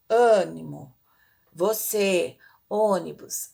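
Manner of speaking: "ânimo, você, ônibus" with closed stressed vowels, no calling; word list with closed, unprojected vowels; closed circumflex vowels. Shown as a demonstration. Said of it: "é mais fechado".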